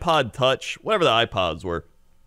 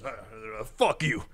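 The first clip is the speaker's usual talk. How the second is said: angry departing customer; 9 dB quieter than usual. Retold or imitated. Customer cursing the greeter while leaving, mock grumble. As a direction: act out a sore loser walking out. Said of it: "I can imitate this 'cause now I'm standing".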